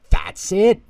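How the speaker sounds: sudden high, loud exclamation; a leap of realisation; excited cry. A narrator's reading. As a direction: burst out with the discovery. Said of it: "Ralphie cried".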